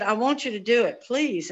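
mildly pleading, imitating a friend; retold begging. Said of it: "she just begged me".

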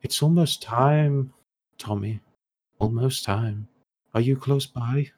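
an eerie inner voice, lingering on the words; voice in the head. Acted. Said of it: "you hear a voice in your head".

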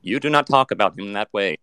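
synthetic robot scolding; defensive chatbot. Acted. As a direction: stand up for your maker, machine-like. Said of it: "trained it to defend me".

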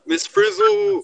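high excited shout of the name; excited callout. Acted. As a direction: call the name out gleefully.

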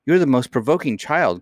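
high-pitched scolding nurse; exasperated cry. Acted. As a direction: cry out at a provoking child. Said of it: "cried her nurse".

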